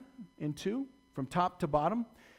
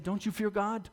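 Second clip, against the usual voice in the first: higher, louder scolding; stern rebuke; 7 semitones higher, 5 dB louder than usual. Acted. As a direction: put the other thief in his place. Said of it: "the other criminal rebuked him".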